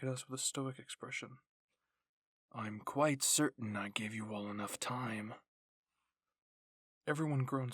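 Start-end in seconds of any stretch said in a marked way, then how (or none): 2.5-5.3 cold low rebuke. Acted. Levi coldly scolds the messy squad.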